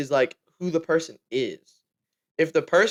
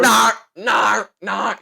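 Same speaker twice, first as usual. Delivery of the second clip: put-on loud, higher accented "Nar"; put-on British accent; 6 semitones higher, 6 dB louder, much slower than usual. Friends trading the accented no, loud mock British accent. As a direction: repeat "no" as exaggerated British "Nar".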